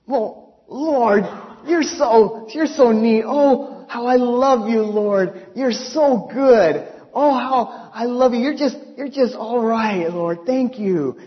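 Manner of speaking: loud, happy gushing; excited adoring praise; gushing to God. Retold or imitated. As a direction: tell the Lord how much you love him. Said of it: "I was just so excited".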